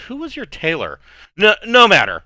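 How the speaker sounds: haughty high voice, sniffing at his clothes; a prim lady brushing off a badly dressed guest; snooty hostess. Haughty hostess mocks Jackson's clothes.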